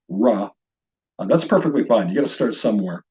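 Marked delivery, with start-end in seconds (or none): 0.1-0.5 ra with a plain English R, as in radical. Shown as a demonstration. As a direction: start ra like the word race. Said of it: "as in the English word race or radical".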